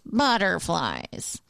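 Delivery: put-on slow, dragged-out old-man grumble; mock grumpy old man. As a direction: play a cranky old neighbour. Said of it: "that's what that voice".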